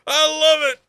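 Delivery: high, loud, laughing through the words; gleeful laughing yes; real delighted laughter, slowed down. Real, not acted. Laughing agreement with the clip.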